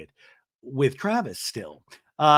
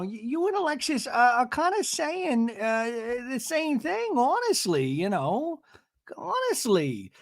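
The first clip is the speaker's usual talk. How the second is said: high, slow mock impression of Gina hesitating; a hammed-up higher voice, dragging the words; imitating Gina; 10 semitones higher than usual. Recapping Gina's words to the cast, in a high mock voice. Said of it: "So she's like".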